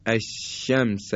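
الشمس slow, sh cut short and narrow; faulty sh demo. Shown as a demonstration. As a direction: show الشمس with a weak sh. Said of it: "مثل که ما بگیم".

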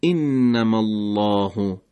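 انما الله slowly, the lam of الله thick and full; heavy lam. Shown as a demonstration. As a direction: give the lam of الله a dark, rounded weight. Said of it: "درشت و پرحج شدن لام".

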